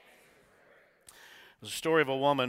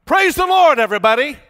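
full shout, much higher and louder; shouted response; 14 semitones higher, 17 dB louder than usual. Shown as a demonstration. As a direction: answer back with everything you've got. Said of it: "what should you say?".

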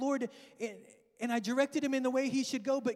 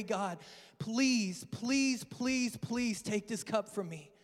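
pleading prayer. Retold or imitated. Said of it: "he's crying out, he's praying".

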